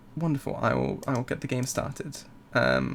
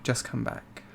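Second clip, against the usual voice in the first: fading refrain; 10 dB quieter than usual. Acted.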